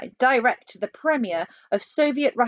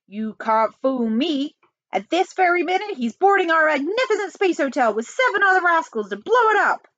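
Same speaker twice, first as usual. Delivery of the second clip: blustering outburst, louder at the end; angry accusation; 8 semitones higher, 3 dB louder than usual. Acted. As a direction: accuse him, pitch climbing high. President angrily accuses on phone.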